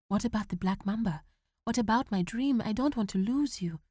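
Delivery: put-on worried young son; pleading boy. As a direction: beg him not to leave. Boy begging father to stay.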